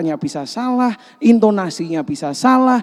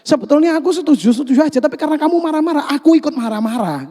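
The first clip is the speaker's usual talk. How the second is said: high, fast exasperated complaint; irritated retort; 7 semitones higher, 3 dB louder, faster than usual. Acted. Imitating someone annoyed because the other is shouting, exasperated. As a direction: snap back, fed up with the yelling. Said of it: "Pernah lihat orang seperti itu?".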